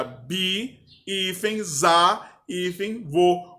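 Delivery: "bi, hífen, za, hífen, vô" with each syllable split off by a short pause. Shown as a demonstration. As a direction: spell out "bisavô" as bi, za, vô, naming each hyphen between them. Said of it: "então, a separação ficaria".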